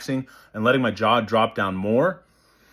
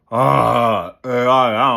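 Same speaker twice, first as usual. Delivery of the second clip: loud, forced open "uh" sounds; shoved jaw "uh"; 5 dB louder, much slower than usual. Shown as a demonstration. Coach showing what we don't want, loud shoved-open "uh". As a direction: overdo it, shoving the jaw open on each "uh". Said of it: "we wanna be shoving".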